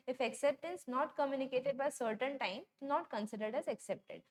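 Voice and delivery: very slow, word by word, like reading a law to copy down; slow dictation. Shown as a demonstration. Teacher dictating the contract rule to students, very slow and deliberate. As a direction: spell out each word of the rule. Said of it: "क्या बोल रहे हैं यहाँ पे साफ साफ".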